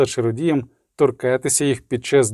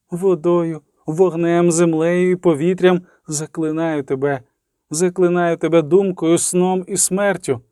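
raised, insistent spell-casting; incantation; 3 semitones higher than usual. A narrator's reading. Sorceress conjuring the spirit to speak, insistent incantation. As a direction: build a chanted list to a high command.

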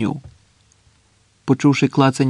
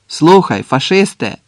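raised, challenging hail; calling out; 3 semitones higher, 5 dB louder than usual. Acted. Sentry to a suspected fascist, calling out. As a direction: hail him sharply from the trench.

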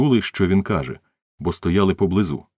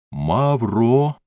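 higher, drawn-out sounding-out of a name; spelling out slowly; 6 semitones higher than usual. A narrator's reading. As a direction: spell it aloud while writing. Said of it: "вимовляв букву за буквою". (вимовляючи по буквах)

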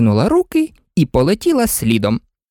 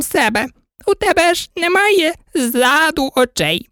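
sheep shopkeeper. A narrator's reading. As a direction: lecture Alice like a fussy old sheep.

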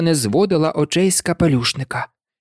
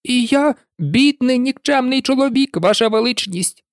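a frightened hatter begging; higher, quavering and timid; trembling voice; 9 semitones higher than usual. A narrator's reading. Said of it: "тремтячим голосом".

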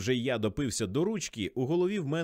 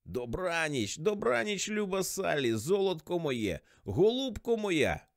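high, slow tipsy crooning; sloppy-drunk affectionate farewell; drunken endearments; 5 semitones higher, slower than usual. A narrator's reading. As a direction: draw out the sweet goodnight, sloshed. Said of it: "Уявляєте, як я наквасився".

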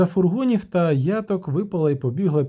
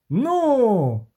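shout; 10 semitones higher than usual. A narrator's reading. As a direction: burst out in agreement. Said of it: "крикнув Любисток". (Любисток гучно вигукує: Ну!)

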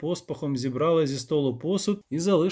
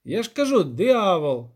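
higher, insistent rustic voice; pitched-up peasant repeating himself; insistent village elder; 5 semitones higher, 5 dB louder than usual. Acted. Elder insisting to the doubting poet, rustic and insistent.

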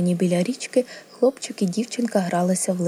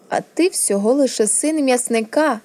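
higher-pitched, emphatic belittling; scornful put-down; 5 semitones higher, 3 dB louder than usual. Acted. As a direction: put the boy firmly in his place. Prince belittles the boy.

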